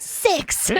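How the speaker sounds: high, unvoiced mock gasp of "Six!"; lightly voiced startled mom; mom's shocked exclamation. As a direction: squeak out the number in mock shock. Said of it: "she still went".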